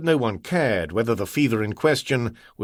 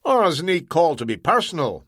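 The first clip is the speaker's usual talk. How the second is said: higher, stubborn Scots; doggedly; 5 semitones higher than usual. Acted. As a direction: dig in stubbornly. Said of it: "McInnery said doggedly".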